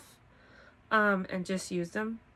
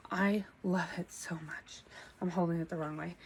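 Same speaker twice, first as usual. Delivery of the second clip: soft unvoiced whisper; a little secret whisper to the camera; whispered aside; 4 dB quieter than usual. Real, not acted. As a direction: murmur it to yourself. Whispered asides while showing shawl.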